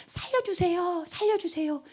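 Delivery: high, hushed cry for help; earnest plea. Acted. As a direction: softly imitate a desperate prayer. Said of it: "간절하게 부르짖어 본 적". (높고 여린 목소리로 간절히 애원)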